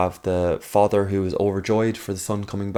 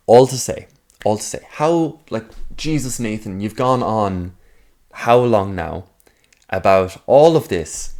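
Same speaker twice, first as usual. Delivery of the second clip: impatient listener; 4 dB louder than usual. Acted. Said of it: "voicing an impatient listener".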